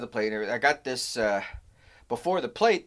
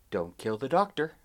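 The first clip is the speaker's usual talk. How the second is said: very calm. Retold or imitated. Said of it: "said very calmly".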